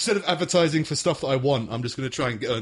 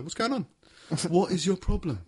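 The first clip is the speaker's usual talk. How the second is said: unbothered dog; 5 semitones higher than usual. Acted. Voicing unbothered dog to attackers.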